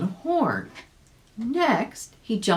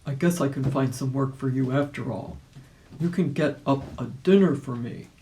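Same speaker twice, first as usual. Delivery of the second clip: lightly voiced wolf; a hint of the wolf calling out; wolf bargaining through the door; gruff wolf voice; 2 semitones lower than usual. A narrator's reading.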